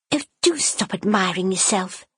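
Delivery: light teasing younger sister. Acted. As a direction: poke fun at her vain sister. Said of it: "Eleanor teased".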